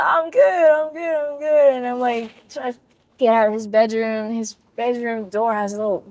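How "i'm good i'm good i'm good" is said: polite refusal. Retold or imitated. Retelling her polite refusal.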